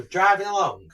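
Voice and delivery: hamming up the tale of woe; mock dramatic. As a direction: caller fools the insurer with a dramatic tale. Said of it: "I said".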